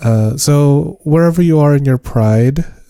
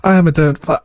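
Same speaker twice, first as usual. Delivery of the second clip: higher, quick host intro; announcer voice; 7 semitones higher, much faster than usual. Acted. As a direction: welcome them like a show host.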